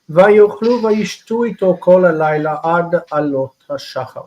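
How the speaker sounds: quick, fluent Hebrew text reading; chanting through the Esther verse; scripture reading. Acted. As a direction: rattle off the biblical verse at speed. Reads Hebrew scripture aloud.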